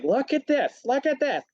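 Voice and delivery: high, pushy complaining voice; entitled customer. Retold or imitated. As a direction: mimic a fussy rich diner demanding attention. Rich customer voiced demanding.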